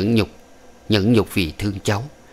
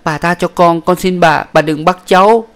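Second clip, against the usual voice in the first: very high, louder desperate pleading; panicked begging; 9 semitones higher, 6 dB louder than usual. Acted. Panicked concubine begging the old woman not to take her son, very high. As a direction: beg for the child in panic. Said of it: "Dung hoảng, nàng chắp tay vái lia lịa".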